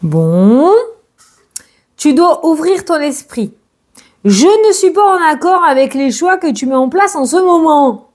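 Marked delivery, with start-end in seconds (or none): 2.0-8.1 voice of the lucky star. Acted. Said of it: "C'est pas moi qui parle".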